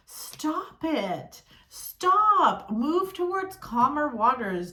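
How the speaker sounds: a high, loud stop, cutting them off; sharp command. Real, not acted. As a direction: order them to stop, rising to a loud burst. Scolding a stubborn sign.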